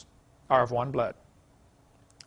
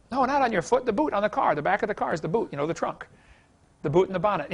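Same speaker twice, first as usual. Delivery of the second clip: patiently explaining in a light mock English accent, higher; an Englishman correcting the Yank, pitched up; 4 semitones higher than usual. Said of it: "just some of the things he would say".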